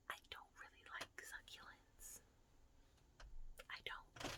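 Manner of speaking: secret whisper, voiceless and hushed; confiding whisper. Real, not acted. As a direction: hide the words from the plants. Whispering so the plants won't hear.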